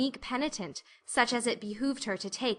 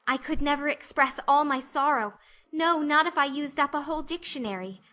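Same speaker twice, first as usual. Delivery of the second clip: higher, overwrought penitent plea; dramatic pleading girl; 3 semitones higher than usual. Acted. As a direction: lay the remorse on thick. Anne's theatrical apology speech.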